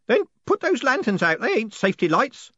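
high, urgent shout. Acted. Groat shouts at the others to put out the lanterns, urgent. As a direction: bark the order to kill the lanterns. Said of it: "shouted Groat".

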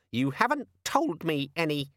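high, petulant little gadget; sulky demon. A narrator's reading. Organizer demon sulking at Vimes. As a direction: pout it out. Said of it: "said the demon sulkily".

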